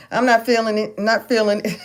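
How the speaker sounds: laughing through the words. Real, not acted. Laughing to viewers about not folding the clothes. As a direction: chuckle it out while admitting laziness. Joking about skipping the laundry.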